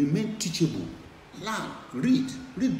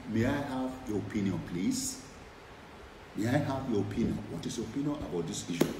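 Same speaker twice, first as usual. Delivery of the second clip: polite request; 4 semitones lower, 3 dB quieter than usual. Shown as a demonstration. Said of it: "learn to say".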